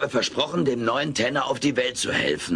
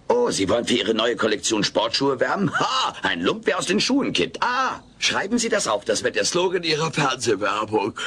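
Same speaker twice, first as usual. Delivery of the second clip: fantasy star boast; 3 semitones higher than usual. Acted. Alf daydreams being a star.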